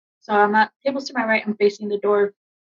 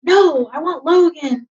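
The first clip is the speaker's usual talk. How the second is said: raised, pleading cry, higher and louder; mild mock yell of a grieving soldier; retold scream; 6 semitones higher, 5 dB louder, slower than usual. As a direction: relive the desperate yell, slowed. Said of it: "standing up and screaming".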